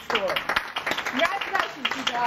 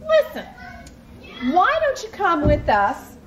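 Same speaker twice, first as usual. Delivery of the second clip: urging siblings; 4 semitones higher than usual. Acted. Siblings urge again.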